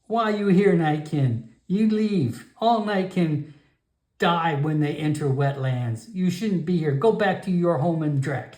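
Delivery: high, broken-English grandmother voice; stern old shaman warning off a stranger; old frog shaman. Acted. Grandmother shaman warns the Nightkin away, high and stern. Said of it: "She is the shaman".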